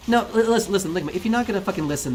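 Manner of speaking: fed up, demand they listen; exasperated outburst. Real, not acted. Streamer losing patience with chat, exasperated outburst. Snapping at chat mid-argument.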